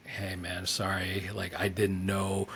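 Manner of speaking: subdued, put-on apologetic plea; a hint of acted sadness; mock sad apology. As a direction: play the sorry tourist, humble and hushed. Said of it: "trying to act really sad".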